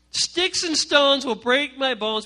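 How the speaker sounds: put-on slow, sing-song sneer at the old rhyme; mocking recital. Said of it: "but shut up".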